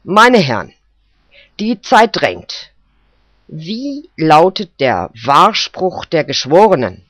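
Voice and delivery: impatient judge. Acted. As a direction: hurry the jury along.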